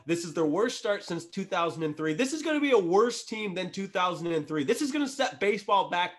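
fired up and yelling. Real, not acted. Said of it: "I'm yelling at the situation".

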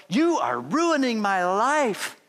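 put-on slow, drawn-out childish protest; dramatic kid. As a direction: mimic a sulky seven-year-old. Boy complains to his mama.

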